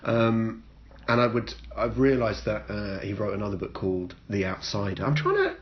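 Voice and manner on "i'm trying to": mock lofty teasing. Real, not acted. Teasing co-host.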